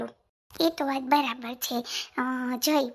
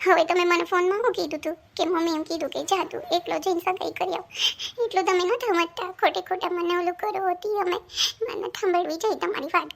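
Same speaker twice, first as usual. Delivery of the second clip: upset reproach, pitch higher and opening louder; a crying fiancée lashing out at him; tearful and angry; 3 semitones higher, 4 dB louder than usual. Acted. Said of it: "કેમ રડે છે?".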